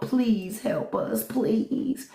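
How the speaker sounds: high, slow begging voice; drawn-out mock begging; mock pleading. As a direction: imitate a desperate plea, stretching each please. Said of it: "letters that these people write to Trump".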